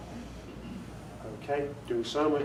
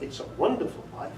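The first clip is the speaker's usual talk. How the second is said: "wonderful" lifted and pushed, a bit quicker; stress on WONDERFUL; 3 semitones higher, 4 dB quieter, faster than usual. Shown as a demonstration. Narrator demonstrating inflection to audience, weight on wonderful. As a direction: punch "wonderful" in "It's a wonderful life". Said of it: "three different inflections there".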